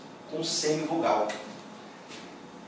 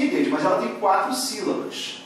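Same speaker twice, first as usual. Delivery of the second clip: a mildly voiced student objecting, a bit higher; imitating a student; 5 semitones higher than usual. Teacher voicing a student's objection to her, lightly mocking. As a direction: play a doubtful student protesting to the teacher. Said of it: "e vou falar assim".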